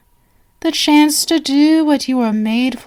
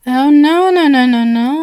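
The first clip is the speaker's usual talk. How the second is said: emphatic reassurance; 2 semitones higher, 6 dB louder than usual. Acted. Reassuring guest eagerly.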